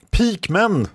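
very high battlefield cry; shouted call. A narrator's reading. Someone summons pikemen in battle, high shouted call. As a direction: shout for troops, pitch way up. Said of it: "skrek någon annan".

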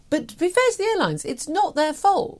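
mock-fair aside. Sudden high mock defence.

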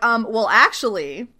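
half-acted defiant retort, voice rising; defiant mock outburst. Danko telling Nathan off, loud defiant retort. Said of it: "Danko's like".

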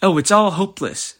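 despairing wail. Acted. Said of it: "said Charlotte".

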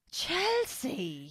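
high, softened mock reproach; mock accusation. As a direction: imitate him passing the blame, high and hushed. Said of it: "It's very, like".

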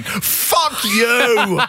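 high, drawn-out mock yell; imitated furious wrestler. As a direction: bellow it like an outraged wrestler, played for laughs. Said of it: "you can clearly seeing him going".

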